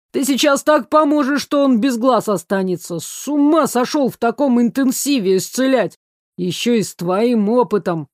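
harsh, heated telling-off; angry scolding. Acted. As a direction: lay into him without mercy. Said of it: "Набросился он безжалостно".

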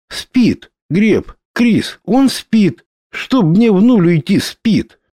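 breathless wonder at the sleeping men; amazed. A narrator's reading. Miriam checks sleeping warriors.

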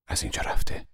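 whispered "از اینجا رفته" under the breath; muttered under breath. A narrator's reading. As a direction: barely voice it, to himself. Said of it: "زیر لب گفت". (زیر لب، نجواگونه)

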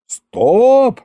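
high, drawn-out cry to halt; yelled stop. A narrator's reading. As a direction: cut the chatter off with a yell. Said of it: "заорали мы хором".

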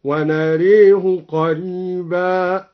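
"ونريه" with the a bent to e: wa-nareehu; slow recitation, "ونريه" as wa-na-ray-hu; imala. Shown as a demonstration. Teacher demonstrates imala, "ونريه" said wa-nareehu. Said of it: "ونراه قريبا بالإمالة".

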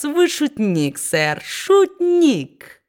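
squeaky slow sycophant voice; fawning toady. A narrator's reading. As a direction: drag it out to flatter. Brass flatters Quilp.

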